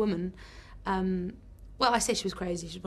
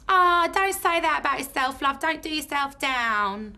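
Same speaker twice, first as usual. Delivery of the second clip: much higher, loud, slow cooing; caring drunk woman; 6 semitones higher, 8 dB louder than usual. Retold or imitated. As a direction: comfort the actress like a tipsy auntie. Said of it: "This woman at the side was like".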